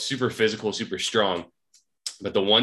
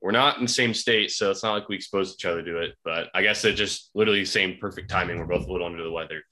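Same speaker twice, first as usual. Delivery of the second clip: sniffling. Real, not acted. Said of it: "sorry if you hear a sniffle".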